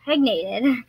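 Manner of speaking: "Pregnated" said without the leading "im"; mispronunciation. Retold or imitated. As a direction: repeat the slip "Pregnated". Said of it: "but I was like".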